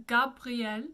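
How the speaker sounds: Gabriel with r in the back of the throat; French Gabriel, stressed on the last syllable; French pronunciation. Shown as a demonstration. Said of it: "with that little R in the back of the throat".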